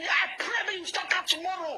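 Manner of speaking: furious demand down the phone line; angry shout. Real, not acted. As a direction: shout it at her in anger. Heated phone quarrel.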